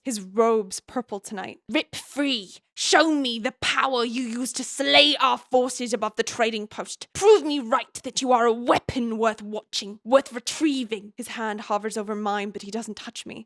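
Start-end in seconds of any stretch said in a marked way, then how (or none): 1.7-11.1 a lightly voiced evil cave dweller, a little louder. The sage demanding Violet show her power, as a light evil cave dweller. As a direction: ham up a villain from the caves, but only lightly. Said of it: "I've just gone for, like, evil cave dweller".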